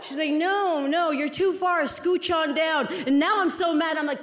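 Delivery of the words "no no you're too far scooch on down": higher, drawn-out insistence from the doctor; the doctor pushing again, cheerfully firm; mock doctor voice. Doctor repeats instruction.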